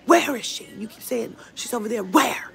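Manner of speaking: high, loud demanding "Where?"; exasperated yelling at the Walmart clerk; retold shout. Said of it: "I said".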